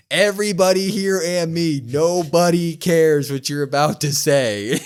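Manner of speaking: slow, loud mocking promo yell; mock taunting yell. Host imitating Liv dismissing Rhea on the mic, loud mock taunt. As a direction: sneer it at the crowd.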